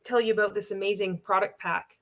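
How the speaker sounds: natural, easy talk to a friend; demonstrating an unforced, conversational pitch; casual phone chat. Shown as a demonstration. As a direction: say it like you're phoning a friend. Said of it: "how would you speak if you were on the phone to your friend".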